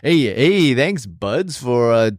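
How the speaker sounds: halting, hammed-up Canadian; Canadian accent. Co-host stumbling through a thank-you to listeners, badly faked Canadian accent. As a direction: fumble through a mock Canadian sign-off. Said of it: "I was gonna say Canadian".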